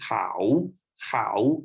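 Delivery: "cow" low in Thai tone for mountain; Thai tone demo. Shown as a demonstration. Teacher showing Thai khao in mountain word, low pitched. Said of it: "pronounce the word K A O in five different tones".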